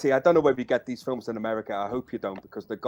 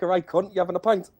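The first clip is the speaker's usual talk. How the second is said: casual pub greeting; 6 semitones higher than usual. Retold or imitated. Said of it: "just be like".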